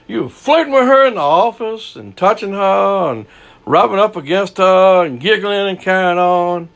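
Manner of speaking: high, heated rundown of his excuses; preacher's high disbelieving rant at the cheating husband; incredulous rebuke. Retold or imitated. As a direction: list his sins in mounting disbelief. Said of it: "I'm thinking in my mind".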